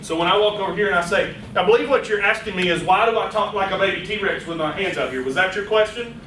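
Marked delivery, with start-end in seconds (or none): 1.6-6.2 checking back politely with the asker; confirming the question. Shown as a demonstration. Presenter confirming a listener's question, polite. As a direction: mirror the question back to them. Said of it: "you ask them".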